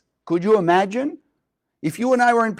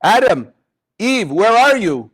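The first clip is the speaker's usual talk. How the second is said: a lightly raised, carrying call from God; 2 semitones higher, 3 dB louder than usual. Acted. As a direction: call out for the hiding pair like God searching the garden. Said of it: "Comes the voice of God".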